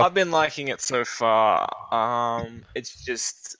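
distant, off-mic voice; speaking far from the microphone. Real, not acted. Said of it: "You sound like you're far away".

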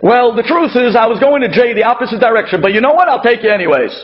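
acted begrudging concession; grudging favor. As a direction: make the favor sound like a burden. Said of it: "Don't turn to the guy and say".

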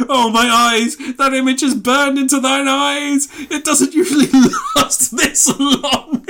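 high, loud mock-horrified lament breaking into laughter; stagey aside. Claudio turning to the audience, hammed-up horror. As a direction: wail it to the back row. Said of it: "turns to the audience and goes".

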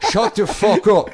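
high, loud mock outburst; mimicking the caller. Co-host mocks the voicemail caller's outburst, mimicking him high and loud. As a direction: yell it like the ranting caller. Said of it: "Something about terrorist attack".

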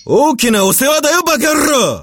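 high slow alien snarl; warbling alien. Acted. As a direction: sneer it in a squeaky alien voice. 외계인 역 일본어 욕. (높고 느린 외계인 욕설)

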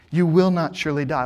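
firm, certain denial with "will" stressed; flat-out confident assertion; absolute confidence. Shown as a demonstration. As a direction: assert it like the serpent, sure of himself. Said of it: "he speaks with absolute confidence".

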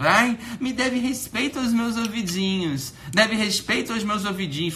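imitação debochada, aguda e arrastada; moleque queixoso. Retold or imitated. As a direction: choramingue mais agudo, zombando de um ofendido. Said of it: "esse moleque não tá entendendo". (arremedo agudo de moleque manhoso)

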